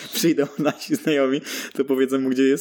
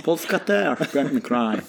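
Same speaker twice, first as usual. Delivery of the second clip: slow, higher broken Polish of a tourist; mock foreigner; 4 semitones higher, slower than usual. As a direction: play a cheerful tourist mangling Polish. (przedrzeźniany turysta, łamana polszczyzna)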